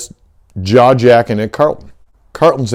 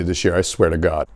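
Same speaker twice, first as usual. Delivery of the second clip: muttered threat; 5 semitones lower, 6 dB quieter than usual. Real, not acted. Vowing revenge on the lady, muttered low under the breath. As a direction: lower and softer, under the breath I swear to God.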